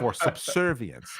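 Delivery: slow mock plantation-owner voice; lightly voiced Southern plantation owner. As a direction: draw it out like a film plantation owner. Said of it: "Django Unchained plantation owner".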